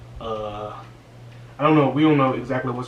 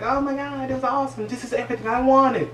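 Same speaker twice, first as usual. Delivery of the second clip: high, giddy delight; old lady delighted at finally getting her dream; ecstatic; 12 semitones higher than usual. Retold or imitated. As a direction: sound like a wish coming true. Gloria ecstatic in the world.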